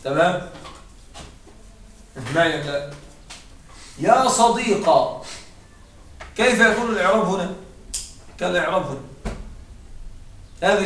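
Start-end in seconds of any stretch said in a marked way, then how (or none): 4.0-5.2 slow صديقا ending on an open "qa"; drawn-out يا صديقا with fatha on the qaf. Shown as a demonstration. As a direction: say صديقا slowly, closing on an "a" vowel. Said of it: "ثم حذف الألف".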